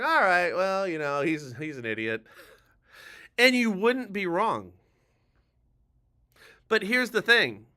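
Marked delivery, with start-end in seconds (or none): 0.0-2.2 dismissive viewer. Acted. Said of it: "some of you right now out there are going".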